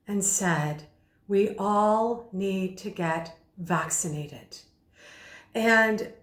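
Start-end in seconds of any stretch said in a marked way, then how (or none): 1.3-4.6 slower, gentle, leaning in; soft and intimate. Shown as a demonstration. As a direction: draw them close, softly urging. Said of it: "softening his voice".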